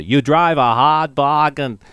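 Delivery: a touch of Boston Kennedy voice, slow; mild slow Kennedy-style drawl; Kennedy impression. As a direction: lightly imitate John F. Kennedy. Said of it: "the person who was doing it, say".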